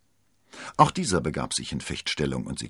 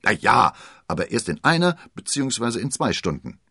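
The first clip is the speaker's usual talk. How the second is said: dry; 5 semitones higher, 6 dB louder than usual. Acted. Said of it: "bemerkte D'Artagnan trocken".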